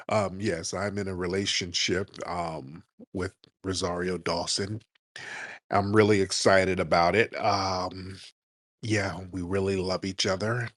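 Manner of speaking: mocking stiff Cory Booker. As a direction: mimic a man reciting a practiced line about his girlfriend. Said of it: "Dudes don't talk like that".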